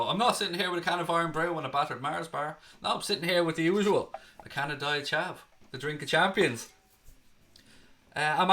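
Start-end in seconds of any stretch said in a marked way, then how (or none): 0.0-6.7 lightly hammed-up Scottish stereotype accent; a half-hearted Scottish caricature voice; mock Scottish accent. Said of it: "go full on racial stereotype and go".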